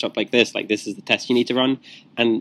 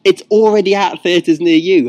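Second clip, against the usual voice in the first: movie trailer voice; 8 semitones higher, 7 dB louder than usual. Acted. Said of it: "in that movie announcer voice".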